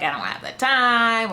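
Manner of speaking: mock-flustered brush-off; freaking out. Panicking woman turns down his Uber suggestion, mock freaking out. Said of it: "She's just freaking out".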